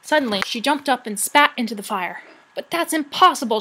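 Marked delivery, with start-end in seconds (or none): 2.5-3.6 high, loud disbelieving cry; cried out. A narrator's reading. Sorrel to the rat, crying out in disbelief. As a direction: cry it out in shock. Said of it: "she cried".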